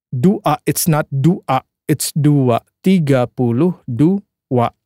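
"dua" said slowly with a W glide, du-wa; sounding out words. Shown as a demonstration. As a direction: draw out "dua" like du-wa. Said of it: "put double U here".

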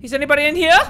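high, loud calling out, rising; scared girl voice. Acted. Gamer as the girl calling for her parents, high and loud. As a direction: call nervously into the dark room. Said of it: "my best voice for a girl".

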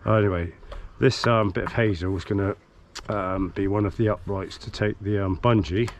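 hoarse from covid; a bit throaty and rough. Real, not acted. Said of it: "If you wonder why I sound a bit throaty".

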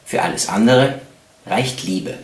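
measured, solemn quote reading with pauses; quote recitation. Acted. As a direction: recite it as a weighty epigraph.

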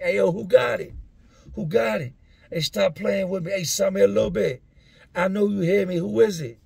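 high, loud call through the vent; yelling through vent. Retold or imitated. Inmates shouting through the vent at neighbours, high loud yell. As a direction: holler up the vent to find the smoker. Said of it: "I hear the guys yelling through the vent".

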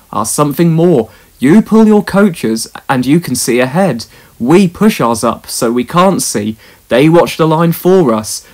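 a hint of a proud, steady engine; engine Caldy. Caldy's voice, held figure.

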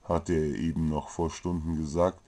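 plain reading voice

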